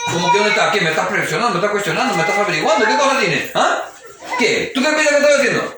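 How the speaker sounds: indignant shouted questions, mock angry; defensive spouse. Guilty spouse snapping at the worried partner, indignant. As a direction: throw the questions back at her.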